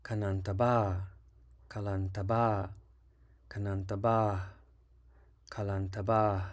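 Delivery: Kanantaba with every syllable kept short; short even syllables, no long vowels; all syllables short. Shown as a demonstration. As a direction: clip each syllable of Kalantaba short. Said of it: "All the syllables are short".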